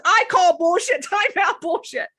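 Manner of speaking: loud, high imitated protest; hammed-up referee-like objection; Cosmo. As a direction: call foul loudly, laughing into it. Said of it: "He says".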